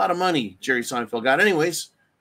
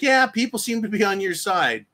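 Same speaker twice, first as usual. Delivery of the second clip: mild facetious tone; 5 semitones higher than usual. Retold or imitated. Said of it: "that's called being facetious".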